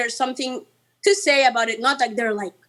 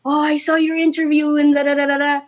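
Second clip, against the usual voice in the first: imitating mom; 4 semitones higher than usual. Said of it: "she calls me every day".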